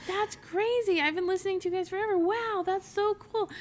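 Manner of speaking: retold giddy excitement; gushing fan. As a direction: mimic an amazed fan. Imitates amazed long-time listener.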